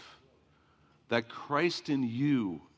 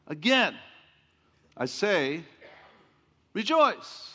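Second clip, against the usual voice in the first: preached refrain; 5 semitones higher, 4 dB louder, slower than usual. Acted. Preacher quoting with force.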